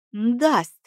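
smirking. A narrator's reading. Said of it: "ухмыльнулся Нейт".

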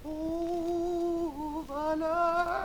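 soft, breathless, winded; out of breath. Shown as a demonstration. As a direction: gasp it like someone out of breath. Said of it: "comme une personne essoufflée".

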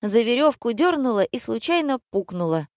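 high, sing-song recited rhyme; thin little voice. A narrator's reading. Browbeaten Valentina finishing the rhyme, thin-voiced. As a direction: carry on reciting in a small high voice. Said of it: "тоненьким голоском продекламировала".

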